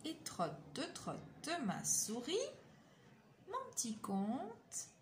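douce et chuchotée, ralentie pour finir; formulette de fin. A narrator's reading. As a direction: conclure tout bas comme une comptine. Formule finale du conte. (formule de fin murmurée et tendre)

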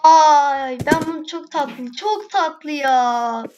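slow, drawn-out adoring coo; real delight, stretched out. Real, not acted. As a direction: gush over the cute animal. Cooing over cute animal.

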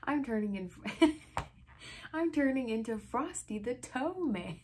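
loud, high mock complaint breaking into laughter; snapping. A narrator's reading. Reader cracking up over a boy's pun, mock snapping. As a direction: grumble loudly while fighting the giggles. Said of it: "Eddie snapped".

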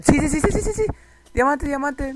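high, loud burst of elation; real excitement. Real, not acted. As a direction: yell out the long-awaited find. Encuentra diamantes por fin. (grito agudo de emoción)

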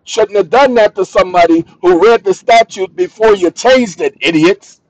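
loud lecturing, insistent and irritated; heated rant. Real, not acted. Man lecturing viewers on licenses, heated and loud. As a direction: hammer the point home with annoyance. Ranting louder at audience.

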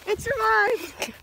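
slow, loud triumphant announcement; excited. Real, not acted. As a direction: announce it slowly, amazed. Phone survives drop test.

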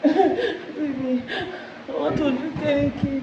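high, tearful whimper; crying. Real, not acted. Girlfriend crying to boyfriend late at night, tearful. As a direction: plead through tears. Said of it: "making you cry like this".

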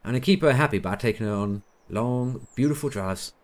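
loosely imitated American accent; car lover in a put-on American accent. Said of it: "gone into some sort of weird American accent with him".

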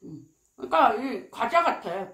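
talking while chewing crunchy food. Real, not acted. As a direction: mouth partly full. Seen 4: Holds crispy bone piece, jaw working, lips closed while speaking.

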